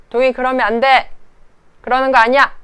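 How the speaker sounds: put-on loud, high sharp scolding of a child; angry scolding. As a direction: scold the toddler hard, raising your voice. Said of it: "되게 막 세게 화를 냈단".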